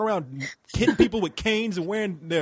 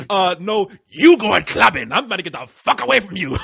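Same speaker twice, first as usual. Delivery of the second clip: retold refusal; 7 dB louder than usual. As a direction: throw it back loudly, stretching the first part. Comic refusal echoing the roar.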